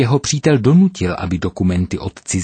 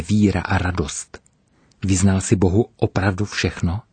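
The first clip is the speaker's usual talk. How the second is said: calm but firm. Acted. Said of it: "řekl jsem klidným, ale pevným hlasem".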